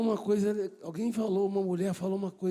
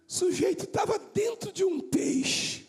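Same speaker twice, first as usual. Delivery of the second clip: high emphasis; 11 semitones higher than usual. Real, not acted. High emphatic sermon point.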